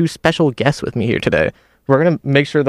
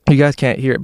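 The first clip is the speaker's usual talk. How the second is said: mouth full. Real, not acted. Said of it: "I'm chewing in the mic".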